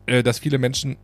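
throat catching mid-sentence; something stuck in the throat; frog in throat. Real, not acted. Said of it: "ich hab irgendwas im Hals". (Frosch im Hals)

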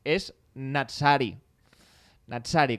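"Natsari" sounded out slowly; phonetic demonstration. Shown as a demonstration. Joan explaining his second name, slow phonetic demonstration of "Natsari". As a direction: say "Natsari" deliberately, as a pronunciation example. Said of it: "fonéticamente hablando".

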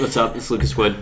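talking through a mouthful; words round a bite of food; mouth full. Real, not acted. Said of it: "Sorry, my mouth is full".

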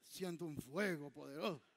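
imitating a pastor, deep and solemn; mock preacher. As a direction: intone it like a showy pastor. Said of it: "el pastor se levanta y dice".

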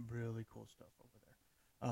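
usual speaking voice

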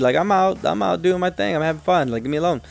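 whiny protest. Retold or imitated. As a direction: imitate a put-upon whine, starting very high. Protesting at being called back to work.

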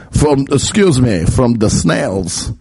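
drawn-out mock vampire; hammy Eastern European vampire accent; Dracula. Shown as a demonstration. Vampire corrects himself about his prey, slow mock Dracula. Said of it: "Now I'm actually doing Dracula".

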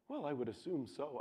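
soft, unruffled reply; calm voice. Retold or imitated. Father answering his heated son at the table, calm. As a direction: imitate an unbothered dad, quietly. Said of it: "in his calm voice".

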